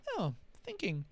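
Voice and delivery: very soft, airy, mock-contented murmur; Andy, contented. Imitating the guide butting into meditation, softly contented. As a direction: butt in gently like a serene guide. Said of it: "with his little contented".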